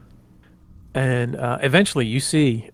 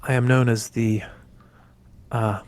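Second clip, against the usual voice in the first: casual; 4 dB louder than usual. Acted. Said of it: "leans on it very casually and just says".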